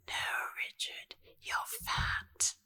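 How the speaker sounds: slow, whispered posh put-down; mock-posh whispered scolding; posh wife. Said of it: "his wife was just so posh".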